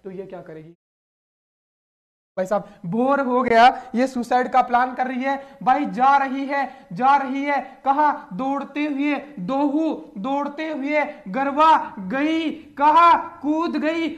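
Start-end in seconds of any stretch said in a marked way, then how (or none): 2.9-12.5 dramatic narration. Acted. Teacher dramatizes girl running away. 12.8-13.1 loud suspense question. Acted. Teacher asks class with dramatic suspense.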